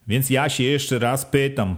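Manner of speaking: a hint of a bossy village head; village head questioning. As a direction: quiz the villagers like a sly official. Wójt's speech to villagers.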